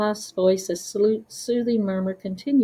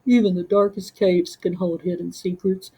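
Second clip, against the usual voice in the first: gentle murmur. Acted. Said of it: "a gentle murmur".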